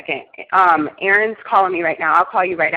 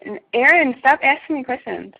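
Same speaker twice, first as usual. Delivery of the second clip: exasperated; 7 semitones higher than usual. Real, not acted. Annoyed at repeated questions.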